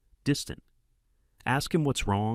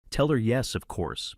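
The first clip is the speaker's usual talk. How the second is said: uncertain; 3 semitones higher than usual. Retold or imitated. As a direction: say it without believing it. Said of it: "even I can hear the uncertainty in voice".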